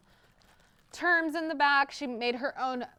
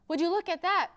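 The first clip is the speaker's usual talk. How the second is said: high, louder gasp of wonder; amazed guest; 9 semitones higher, 7 dB louder than usual. A narrator's reading. Guest amazed as dragonfly lands, gasping. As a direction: marvel at the dragonfly in her hand.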